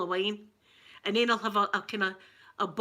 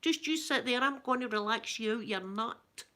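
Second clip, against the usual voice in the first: high-pitched Ned hosting relaxation; Ned ASMR; 6 semitones higher than usual. Acted. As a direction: parody a street-talking ASMR host. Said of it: "Ned A S M R".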